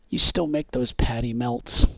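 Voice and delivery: boisterous big-shot customer; loud and boisterous. Acted. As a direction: ask it for the whole diner to hear. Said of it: "whose voice is just loud and boisterous".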